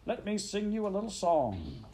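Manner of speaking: high-pitched pompous weasel; squeaky speechmaker. A narrator's reading. Chief Weasel addressing the banquet, high and squeaky. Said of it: "began in a high, squeaky voice".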